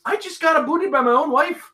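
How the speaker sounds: high mock Canadian complaint; hammed-up Canadian outrage on "abooted". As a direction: squeal it in put-on Canadian. Mock Canadian joke continues.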